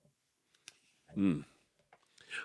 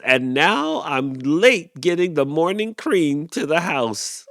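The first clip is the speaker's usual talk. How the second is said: higher, louder gripe; grumbling cow; 7 semitones higher, 5 dB louder than usual. A narrator's reading. Cow griping about the late cream, high whine.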